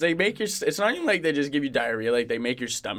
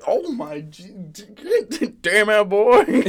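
high, loud stuttered outburst, laughing; mock hollering; 7 semitones higher, 6 dB louder, much slower than usual. Imitating what listeners just heard, high mock holler. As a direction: sputter into a rowdy yell. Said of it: "You guys were probably just like".

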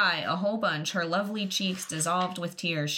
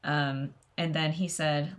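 usual speaking voice

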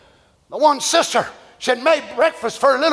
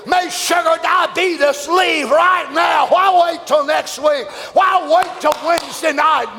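preaching at full force. Acted. Preacher commanding sickness to leave the congregation, shouting. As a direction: proclaim healing over the crowd. Praying healing over congregation.

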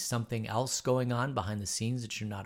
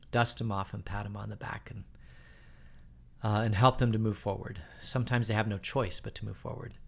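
closing prayer. Real, not acted. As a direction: pray for the leaders sincerely.

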